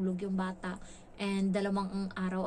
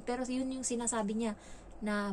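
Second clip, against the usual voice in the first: usual speaking voice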